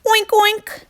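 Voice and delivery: high, squealed oink; shouting pig. Acted. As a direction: oink at the howling wind. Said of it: "he shouted at the howling wind".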